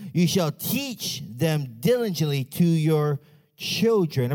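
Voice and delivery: measured, declaimed Bible reading; scripture reading. Acted. Preacher reading Deuteronomy to the church, solemn reading. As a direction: read it out to the congregation, phrase by phrase.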